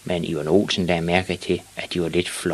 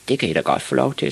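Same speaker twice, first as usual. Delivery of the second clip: put-on high, quick boy voice; reply briskly as a small kid; higher-pitched child character; little boy Ivan; 6 semitones higher, faster than usual. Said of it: "sagde Ivan".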